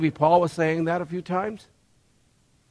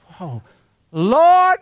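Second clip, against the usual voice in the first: praising exclamation; 2 semitones higher, 4 dB louder than usual. Retold or imitated. Believer at the top praising God, loud joyful cry. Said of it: "And then it says".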